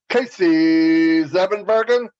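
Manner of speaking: slow, drawn-out announcer's roll call; light radio voice. Acted. Co-host greeting a viewer with a radio voice, light announcer imitation. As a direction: stretch the name like a radio host. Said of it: "He's got that radio voice too".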